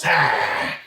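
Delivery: sudden snarling lunge sound; short growled zombie snarl. Acted. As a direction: snarl like a chained zombie lunging. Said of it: "Professor Westbourne suddenly turns and snarls".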